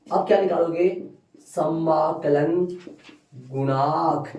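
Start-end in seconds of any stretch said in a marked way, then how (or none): 1.5-4.3 stretched syllables, pause between words; very slow, measured naming; slow dictation. Real, not acted. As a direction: draw the term out for writing. Dictating the term while writing.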